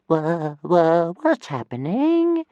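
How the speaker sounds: high, slow, drowsy little dragon stammer; sleepy dragon. Acted. Tiny dragon asking his boy sleepily. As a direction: wake up groggy as a tiny dragon. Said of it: "he asked sleepily in Dragonese".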